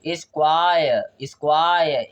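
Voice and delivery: स्क्वायर with its middle vowel stretched; drawn-out glide. Shown as a demonstration. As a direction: sound out स्क्वायर, falling at the end. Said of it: "ए आ रहा है ना". ("स्क्वायर" का बीच का स्वर खींचकर)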